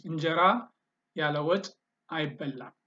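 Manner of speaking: broken into parts with clear pauses between; word by word. Shown as a demonstration. Teacher modelling an Amharic sentence for learners, word by word. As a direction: model it in separate chunks for learners.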